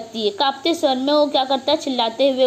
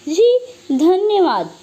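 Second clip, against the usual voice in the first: slow, higher, shaky thanks; trembling voice; 4 semitones higher, 3 dB louder, slower than usual. Acted. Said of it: "कांपते ही स्वर में". (कांपती आवाज़ में धीमा धन्यवाद)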